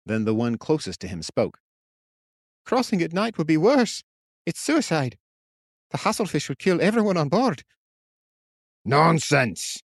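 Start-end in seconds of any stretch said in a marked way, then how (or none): 2.7-7.6 much higher, fearful fisherman; frightened fisherman. A narrator's reading. Fisherman warning the captain, high and afraid. 8.9-9.8 loud angry roar. A narrator's reading. Captain roaring at the fishermen, furious. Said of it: "Fallon roared".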